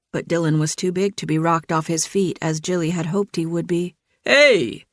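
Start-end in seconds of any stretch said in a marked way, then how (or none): 4.2-4.8 startled protest. A narrator's reading. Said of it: "Dylan protested".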